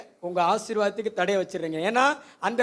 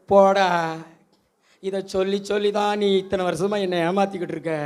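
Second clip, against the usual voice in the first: Hannah brushing him off. Acted. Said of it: "அப்படி சொல்லிட்டு".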